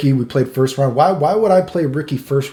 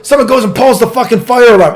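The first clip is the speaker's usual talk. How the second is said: exasperated; 9 semitones higher, 8 dB louder than usual. Real, not acted. Climax of bad-luck story.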